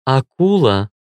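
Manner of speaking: gently voiced goddess introducing herself; a touch of tenderness; tender voice. A narrator's reading. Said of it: "нежным голосом представилась богиня".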